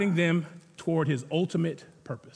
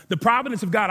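stronger restatement; 2 semitones higher, faster than usual. Shown as a demonstration. Preacher repeating the key phrase to the church, now proclaiming it. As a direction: lift and proclaim providence of God.

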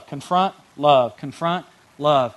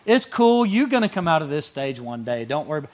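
mock buddy; 4 dB louder than usual. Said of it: "Friendships could be like".

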